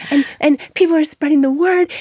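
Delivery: high, bright sales push; pitching to the Sephora buyer, eagerly. Retold or imitated. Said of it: "and I was like".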